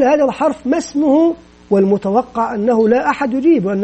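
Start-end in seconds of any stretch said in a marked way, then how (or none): 0.0-1.3 teacher asking class. Shown as a demonstration. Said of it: "ويقول".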